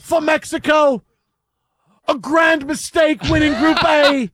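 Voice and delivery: high, loud mock-English proclamation; English accent. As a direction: declaim it in a hammed-up English accent. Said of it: "do this in an English accent".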